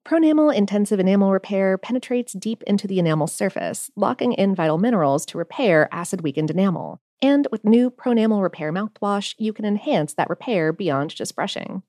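scripted, evenly paced commercial delivery; polished product pitch; sponsor ad read. Acted. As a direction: read it as a podcast sponsor spot.

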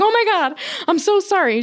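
high-pitched startled apology; flustered apology, imitated. Woman who walked into wrong sauna, imitated flustered apology.

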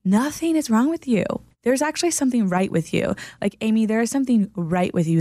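firm, caring encouragement to a friend; emphatic reassurance. Retold or imitated. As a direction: insist kindly that nothing is wrong. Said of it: "And I'm like".

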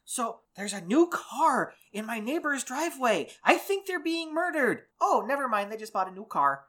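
high-pitched mock-Minnesotan neighbor; hammed-up Minnesotan alarm, then settling down; Minnesotan accent. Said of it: "Why are we suddenly Minnesotan?".

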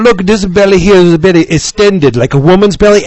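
cabbie impression. Cabbie praising Jason's drawing, mild imitation. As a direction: imitate the cabbie admiring the art. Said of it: "this is the way the man talked".

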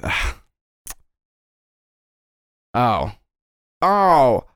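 from a hushed ah to a delighted shout; dawning recognition. Acted. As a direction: realise slowly, then burst out. Disruptor recognises Kim.

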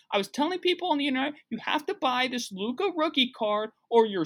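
high-pitched, boastful hustler impression; Gary V. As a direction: crow about deals in an exaggerated high voice. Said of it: "That's what Gary Vee sounds like to me".

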